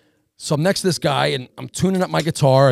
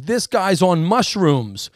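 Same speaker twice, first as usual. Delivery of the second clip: slow tattling; 3 semitones higher, much slower than usual. Retold or imitated. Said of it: "he goes".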